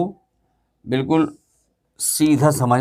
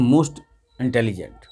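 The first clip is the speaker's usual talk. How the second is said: most intelligent drawn out very slowly, word by word; drawn-out teacher dictation of the form; slow deliberate dictation; 4 semitones lower, 3 dB quieter, much slower than usual. Shown as a demonstration. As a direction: spell it out for the class at a crawl.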